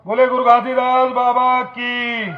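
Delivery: drawn-out rallying call; sustained cry to the crowd; slogan call. Real, not acted.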